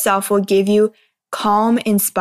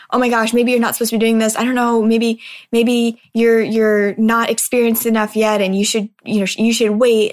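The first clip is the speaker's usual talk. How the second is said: frantic. Retold or imitated. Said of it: "it's this just frantic".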